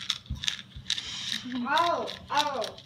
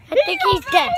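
surprised; 10 semitones higher, faster than usual. Real, not acted. Joking after friend falls.

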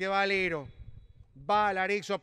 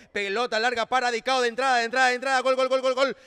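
rapid goal call; 5 dB louder, much faster than usual. Real, not acted.

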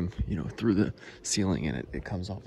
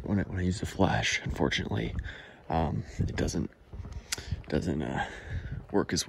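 speaking up, louder than a whisper. Real, not acted. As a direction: push the voice out so it carries. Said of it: "I gotta talk a little louder".

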